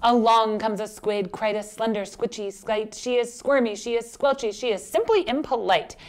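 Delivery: lilting picture-book reading; story narration. A narrator's reading. Teacher reads rhyming fish story to children, storytelling. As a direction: read it to little children with swing.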